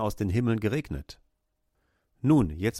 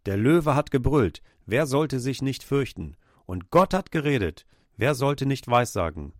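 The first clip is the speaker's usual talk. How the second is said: mild raised proclamation, quoting a prophet; a touch of prophetic crying out; prophet's cry; 3 semitones higher than usual. Retold or imitated. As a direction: call it out like a prophet, moderately raised. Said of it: "Amos rief damals aus und sagte".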